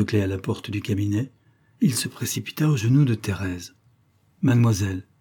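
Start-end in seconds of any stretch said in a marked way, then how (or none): 4.4-5.1 emphatic. Acted. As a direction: lean on Mademoiselle like a grand plea. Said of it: "lui dit-il avec emphase".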